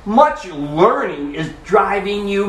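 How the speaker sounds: put-on high, booming British-accented proclamation; loud voice. Festus interrupts Paul's defense, in a loud voice. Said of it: "said with a loud voice".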